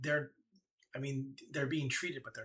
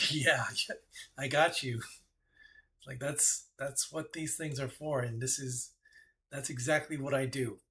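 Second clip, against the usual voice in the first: gloating goddess; 3 dB louder than usual. Acted. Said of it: "Lolth is just like".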